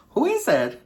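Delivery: loud, high-pitched demand; insistent demand. Retold or imitated. Retold demand to know about rival.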